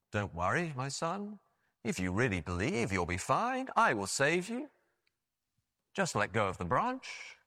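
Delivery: lightly voiced God, unhurried and calm; heavenly voice. God reassuring the hanging man, in a mild heavenly voice. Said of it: "a booming voice from heaven".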